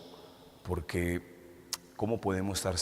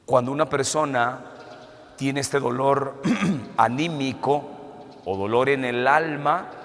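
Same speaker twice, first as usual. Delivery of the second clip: louder, higher impassioned sermon; forceful preaching; 5 semitones higher, 6 dB louder than usual. Acted. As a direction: preach it out to the congregation. Preaching builds to full force.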